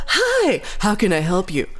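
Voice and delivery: a touch of fake customer-service sweetness; mock-friendly clerk. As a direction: imitate the clerk turning on the charm. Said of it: "Ashley was super nice to this guy".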